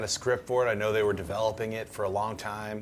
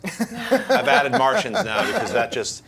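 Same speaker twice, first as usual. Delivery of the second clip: high, loud, laughing delivery; laughing while talking; 12 semitones higher, 8 dB louder, slower than usual. Real, not acted. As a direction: crack up at your own joke mid-sentence. Cracking up at own joke.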